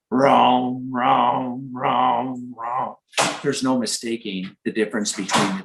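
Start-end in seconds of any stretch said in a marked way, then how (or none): 0.1-2.9 mild imitation of a bullfrog's repeated "rum"; lightly voiced frog croak "rum, rum"; bullfrog call. Shown as a demonstration. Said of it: "the bullfrog in a deep voice goes".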